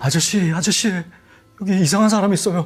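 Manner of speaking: high, loud, stuttering, panicked shout. Retelling pounding on the security office door, retelling a stammering panicked shout. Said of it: "어버버거리면서 말을 더듬으면서 소리를 질렀죠".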